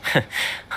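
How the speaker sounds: small breath of a laugh; soft chuckle. Acted. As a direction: chuckle quietly. Wry reaction to dog's unease.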